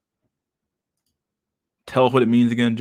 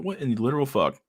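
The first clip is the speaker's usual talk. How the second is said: stunned disbelief; 4 semitones higher than usual. Retold or imitated. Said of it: "I'm like".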